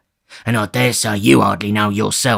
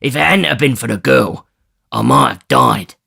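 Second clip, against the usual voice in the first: louder, sneering resentment; bitter grin; 3 semitones higher, 4 dB louder than usual. Acted. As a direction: bitterly list his grievances. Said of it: "replied Sikes with a bitter grin".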